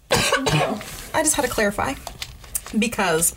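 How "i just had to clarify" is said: swallowed wrong way; coughing through the words; choking on water. Real, not acted. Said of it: "I'm sorry, I'm choking on water right now".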